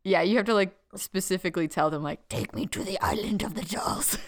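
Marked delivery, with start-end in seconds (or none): 2.3-4.2 spooky witch voice; witchy voice. Pretend. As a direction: say it like a creepy witch. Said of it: "Did you have to say it like that?".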